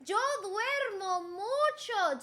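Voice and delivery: slow, drawn-out model sentence, repeated; slow lesson demo. Shown as a demonstration. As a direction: repeat it slowly. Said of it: "make a sentence".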